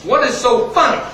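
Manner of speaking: a hint of a stern sergeant; lightly voiced grizzled sergeant. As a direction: demand an answer like an old sergeant. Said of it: "old grizzled sergeant walks up and says".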